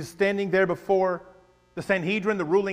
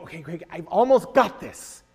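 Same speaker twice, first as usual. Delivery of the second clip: eager listener; 4 dB louder than usual. Retold or imitated. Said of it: "people here listening to him going".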